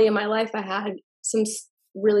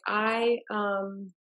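mid-sip of matcha tea; talking around a sip of tea; while sipping a drink; 5 dB quieter than usual. Real, not acted. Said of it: "sorry, I'm drinking my matcha tea".

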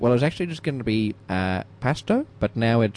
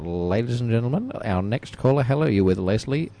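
radio announcer. Acted. Radio host announcing caller.

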